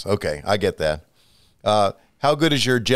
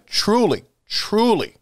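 gushing emphasis; 10 semitones higher, slower than usual. Real, not acted. Host gushing over guest.

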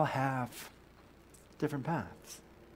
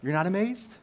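mock dismay; 2 semitones higher than usual. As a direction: act taken aback and start haggling. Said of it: "he would say".

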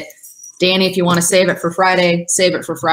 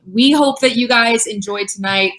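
higher, super-excited sign-off; excited near-yell; 5 semitones higher than usual. Real, not acted. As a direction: push it out with real excitement. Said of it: "Sorry, I'm, like, yelling. I'm super excited".

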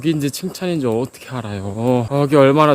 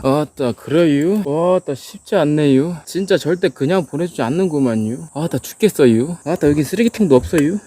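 Chungcheong dialect. Acted. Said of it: "충청도는 경산도로 쉽게 보내주지 않는다".

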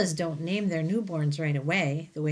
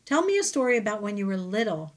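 pleading; 3 semitones higher, 3 dB louder, faster than usual. Acted. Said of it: "Ruby pleads".

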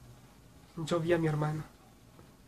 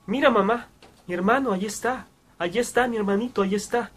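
llamada emocionada de niño; 3 semitones higher than usual. Retold or imitated. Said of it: "Bastaba para decir".

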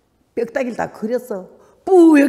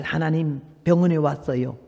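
quiet prayer; 5 semitones lower than usual. Retold or imitated. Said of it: "거기서 다시 기도".

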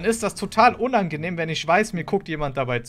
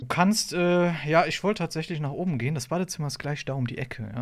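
wolf faking sweetness; 2 semitones lower, 3 dB quieter than usual. Acted. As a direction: lure her in softly. (schmieriger Verführer)

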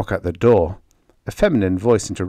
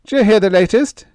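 blurted out high and loud, out of breath; breathless; 13 semitones higher, 8 dB louder than usual. A narrator's reading. Walt bursts in with news, breathless and loud. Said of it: "he asked breathlessly".

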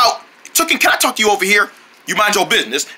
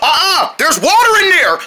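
alarmed shout; 7 semitones higher than usual. Pretend. Character warning the tank holds water, alarmed shout.

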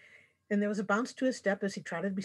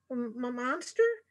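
slow, stammering fright; mild frightened stutter on monster; scared stammer; 5 semitones higher, slower than usual. A narrator's reading. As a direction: stumble over it in fear.

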